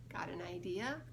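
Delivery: hushed whispered question. Real, not acted. Asking the child for a guess in a whisper.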